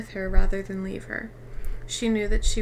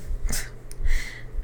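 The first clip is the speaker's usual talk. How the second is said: embarrassed laugh. Real, not acted. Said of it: "I'm sorry".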